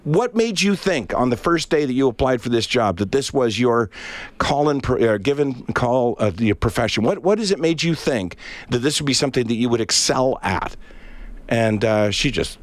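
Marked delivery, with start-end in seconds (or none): 0.0-10.7 1 mock lecture. Teller lectures rude waitress.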